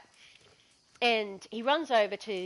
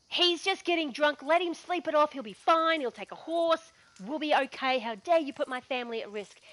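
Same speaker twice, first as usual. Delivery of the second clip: higher, sharp scolding tirade; furious lady of the house; 5 semitones higher than usual. Retold or imitated. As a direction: tear into the nurse. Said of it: "loses her shit".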